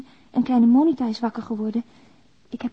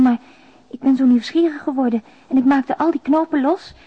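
usual speaking voice

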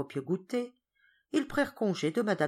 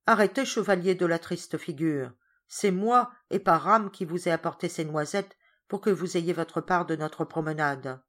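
louder teasing reproach; mocking governess; 4 dB louder than usual. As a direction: tease him grandly. Governess mocks Georges, laughing.

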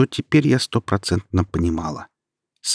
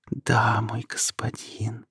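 slow, soft, languid whisper; 3 semitones higher, 6 dB quieter, much slower than usual. A narrator's reading. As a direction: breathe it out slowly and softly. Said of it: "томно прошептала она". (томный медленный шёпот)

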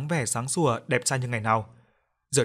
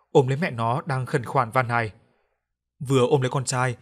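ordinary delivery, nothing marked

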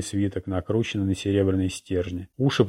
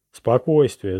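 lightly raised herald's call; town crier shout; 3 semitones higher, 4 dB louder, slower than usual. Acted. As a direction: call the crowd to order. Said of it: "закричал глашатай". (призыв глашатая к спокойствию)

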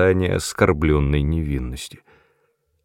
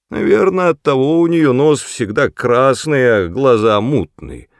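high, loud spiteful crone; gloating old woman; 6 semitones higher, 5 dB louder than usual. Acted. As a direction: chime in with malice. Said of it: "подхватила старуха".

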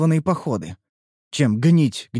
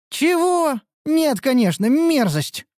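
surprised; 13 semitones higher, slower than usual. A narrator's reading. Disgusted denial.

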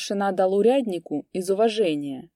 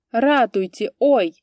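higher, much louder strained yell; strained thin cry; 5 semitones higher, 8 dB louder, slower than usual. A narrator's reading. Old priest cries for help as thieves take his horse. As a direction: scream for help in panic. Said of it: "кричал поп тоненьким напряжённым голосом".

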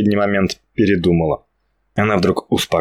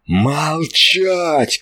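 higher, barked order; shouted command; 7 semitones higher than usual. Acted. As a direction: bark one word to silence them. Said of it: "крикнул Владимир". (Владимир резко кричит ангелам: молчать)

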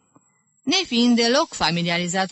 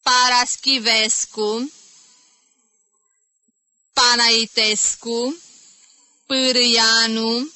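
slow, loud, high drawn-out names; ironic roll call; 5 semitones higher, 5 dB louder, slower than usual. Acted. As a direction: call each name savouring it with mock relish. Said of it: "înghițind cu umor ... zâmbind ironic". (strigare ironică, rară și tare)

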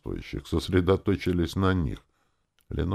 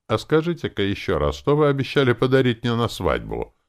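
high, louder, agitated question; nervous exclamation; 8 semitones higher, 6 dB louder than usual. A narrator's reading. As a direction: demand it nervously, voice raised. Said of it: "нервно воскликнула она".

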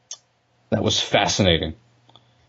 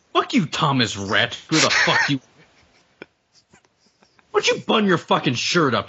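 ranting insults; 5 semitones higher than usual. Real, not acted. Ranting at the singer.

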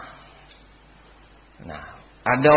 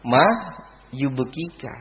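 soft, lowered Arabic question; gentle question; 3 dB quieter, slower than usual. Shown as a demonstration. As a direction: ask it softly, with a pause after the first word. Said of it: "kayak gitu caranya". (bertanya pelan dan lembut)

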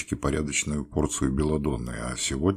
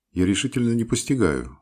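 excited; 8 semitones higher, 6 dB louder than usual. A narrator's reading. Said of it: "заговорил я возбуждённо".

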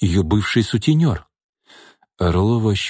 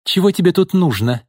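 nervous exhale; 8 semitones higher than usual. Acted. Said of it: "нервно выдохнула Лина".

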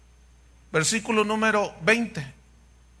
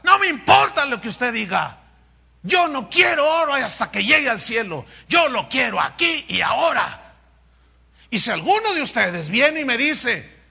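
mock brash preacher. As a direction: rant like a brash televangelist. Continues imitating brash preacher.

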